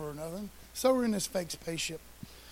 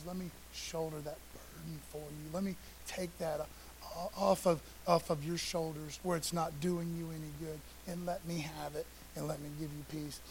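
tender voice of God; 3 semitones lower, 6 dB quieter than usual. Acted. God voiced comforting the listener.

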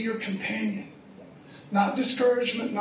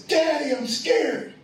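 higher-pitched mock cry to Daddy; lightly acted frightened little girl; imitating scared daughter; 4 semitones higher, slower than usual. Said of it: "she's crying".

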